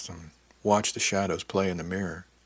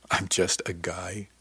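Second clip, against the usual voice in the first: slow, mocking echo of his words; slower than usual. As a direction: drag it out to mock him. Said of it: "you have the audacity to say to me".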